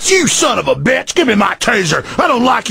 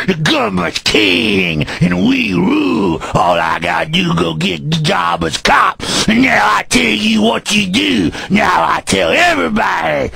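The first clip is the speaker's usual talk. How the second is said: arrogant cop; 3 semitones lower than usual. Retold or imitated. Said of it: "that's an imitation of 'em".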